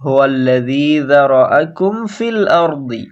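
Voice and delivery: quick even vowels, recited; tajweed demo. Shown as a demonstration. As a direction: recite it with crisp short harakat. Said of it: "প্রত্যেকটা হারাকাত তাড়াতাড়ি বলবো". (তাজবিদ অনুযায়ী দ্রুত হারাকাতে তিলাওয়াত)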